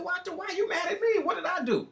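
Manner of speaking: high, laughing protest; laughing disbelief. Retold or imitated. To Alexis who was mad at him, high laughing protest. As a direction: laugh it off, asking what he did.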